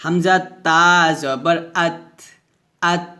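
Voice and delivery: slow spelling, ending আত on a puff of air; আত with an aspirated, vowelless t; hams. Shown as a demonstration. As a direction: let breath escape after the t of আত. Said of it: "বাতাস বের করে উচ্চারণ".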